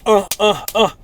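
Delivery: short loud grunts, one after another; imitated exertion grunts; mechanical mock grunts. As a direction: grunt through it like a dutiful task. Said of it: "it's like an, a mission objective".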